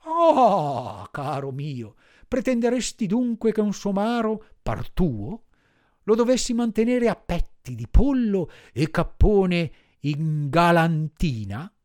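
rising irritation at a spoiled donkey; growing anger. Acted. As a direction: master scolding the donkey, getting angrier. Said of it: "arrabbiandosi sempre più".

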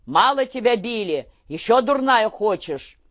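high, loud roar at his daughter; a bedridden father screaming at her; loud furious shout; furious yelling. A narrator's reading. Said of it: "заорал на дочь".

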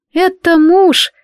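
slow, loud, high exasperated retort; snapping back at friends in frustration; heated outburst. Acted. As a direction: blurt it out in exasperation. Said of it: "в сердцах высказалась".

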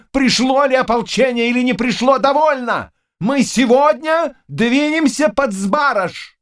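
high, forceful royal anger; angry outburst. Acted. King rebukes his hesitant council, high and angry. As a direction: slam the council's dithering.

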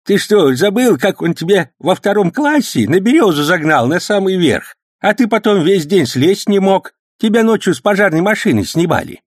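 put-on high, loud old man's voice, overjoyed; an old uncle beaming at his nephew; delighted old man. A narrator's reading. Old uncle gladly vouching for his nephew, high and loud.

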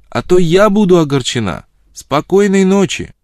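high, loud singing-out from afar; ringing far-off call; calling back. A narrator's reading. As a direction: call your goodnight back down the road. Her answer called from afar.

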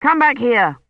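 mild narrated shout; shouted order. A narrator's reading. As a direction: call him back firmly. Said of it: "he shouted, starting after him".

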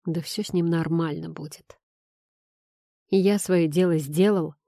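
ordinary delivery, nothing marked

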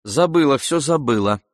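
hurried with забыла cut off quickly. Acted. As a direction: rush the words to end the talk. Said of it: "скоро проговорила она".

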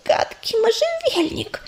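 slow, weak whispered complaint. Acted. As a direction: breathe it out, barely voiced. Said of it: "прошептала малышка".

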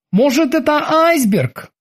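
high, slow bosun voice; high, unhurried character voice, tentative; Kiki suggesting. A narrator's reading. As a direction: offer a guess in a high-pitched, drawn-out voice. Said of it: "предположил он".

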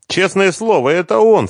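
high, trembling plea. Acted. Svetlana swears to Renat, trembling and high. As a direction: voice quivering as she swears. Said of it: "дрожащим голосом".

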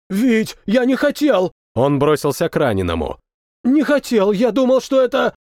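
high, anguished pleading; desperate apology. A narrator's reading. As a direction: plead with the friend you just shot. Soldier shot a comrade by mistake.

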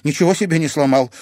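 anxious question. A narrator's reading. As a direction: fire it out in a panic. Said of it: "обеспокоенно спросила она".

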